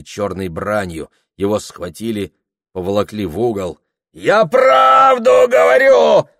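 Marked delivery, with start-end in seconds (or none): 4.1-6.3 very high, loud, slow yell; desperate shout. A narrator's reading. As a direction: yell while being dragged. Yashka struggling while dragged off.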